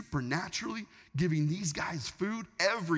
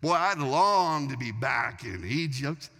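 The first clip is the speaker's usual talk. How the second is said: hammed-up wistful grumbling with stretched words; mock complaining. Israelites longing to be back in Egypt, mock complaining. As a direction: pine theatrically for the old days. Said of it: "they're complaining".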